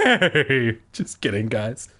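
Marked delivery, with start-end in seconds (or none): 0.0-0.8 mock hoarse whisper. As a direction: joke strained bleat. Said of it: "came out in a hoarse whisper".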